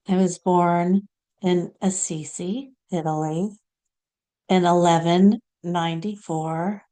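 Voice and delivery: lightly voiced saint, phrase by phrase; Saint Clare. Channelled saint offering listeners friendship and her life story, deliberate and measured. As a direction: speak as a channelled saint, with long pauses. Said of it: "now we're gonna hear from Saint Clare".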